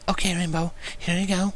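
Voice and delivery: Fluttershy quietly handing it over; whispered. A narrator's reading. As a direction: hush it from behind. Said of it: "Fluttershy suddenly whispered".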